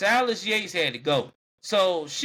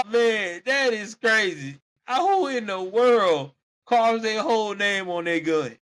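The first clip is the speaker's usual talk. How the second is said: incredulous; 4 semitones higher, 3 dB louder than usual. Real, not acted. Host amazed at named gun.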